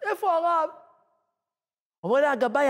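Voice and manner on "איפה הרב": high, tearful voice of a woman. Retold or imitated. Crying woman asks for the rabbi, high and tearful. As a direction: plead through imitated tears. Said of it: "מתחילה לבכות".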